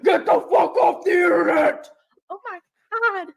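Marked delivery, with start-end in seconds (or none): 0.0-1.9 gruff rock-singer husband voice; grumpy husband voice. Retold or imitated. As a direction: bark it like an annoyed husband. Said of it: "You sound like the dude from a rock band".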